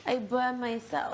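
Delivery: slow mock baby talk. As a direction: imitate his babyish whine, slowly. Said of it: "talking like a baby".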